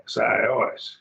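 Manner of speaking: sios with stress on both syllables; both syllables accented. Shown as a demonstration. Teacher repeating the example, sios accented on both syllables. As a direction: give each half of sios its own accent. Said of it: "You accent both syllables".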